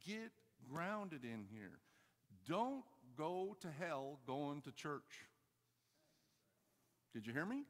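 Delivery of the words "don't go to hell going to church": stretched out, deliberate warning; slow emphatic warning. Real, not acted. Preacher warns churchgoers not to go to hell, slow and emphatic. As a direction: draw out each part of the warning slowly.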